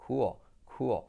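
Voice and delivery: "cool" as KOO-ol; pronunciación correcta. Shown as a demonstration. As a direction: glide "cool" into a dark l, like another syllable. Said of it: "pero sería". ("cool" como «cúol»)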